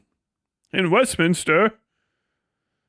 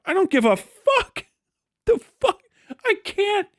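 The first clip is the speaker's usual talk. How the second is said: real irritation; 10 semitones higher than usual. Real, not acted. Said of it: "I'm actually irritated".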